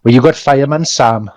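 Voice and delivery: put-on slightly singing Welsh Valleys accent; joking Valleys Welsh. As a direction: play up the Welsh lilt. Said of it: "it could be a Valley's accent".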